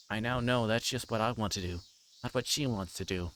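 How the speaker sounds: normal talking voice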